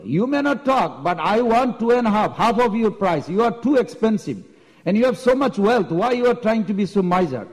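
mildly hammed-up demanding customer; arrogant haggling. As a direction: badger the seller over his price. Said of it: "Mahaprabhu was very arrogant".

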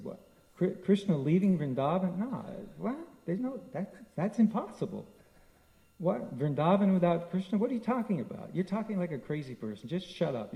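a mother who won't believe it; distraught, incredulous protest; frantic disbelief. Retold or imitated. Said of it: "in her madness".

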